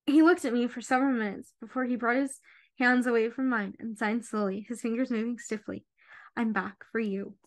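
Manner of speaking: reading a novel passage aloud; gentle audiobook reading; story narration. A narrator's reading. Reads book excerpt aloud.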